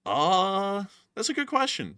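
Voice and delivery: very high, squeaky. Pretend. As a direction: pitch way up into a squeak.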